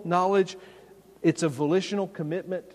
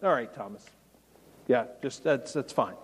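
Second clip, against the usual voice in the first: lower, offhand mock indulgence; letting it slide; 4 semitones lower than usual. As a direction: imitate someone casually waving off an offense. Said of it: "just let it slide and just be like".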